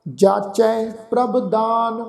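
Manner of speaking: slow, drawn-out chanted reading of the verse; measured Gurbani path recitation; slow scripture recitation. Shown as a demonstration. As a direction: recite each line slowly and reverently. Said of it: "ਆਓ ਉਚਾਰਨ ਕਰੀਏ ਜੀ".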